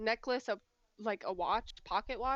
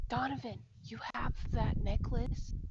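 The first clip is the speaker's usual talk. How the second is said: voiced stage whisper. Addressing a fellow player's character privately in a group game, whispering. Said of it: "I'm whispering to him".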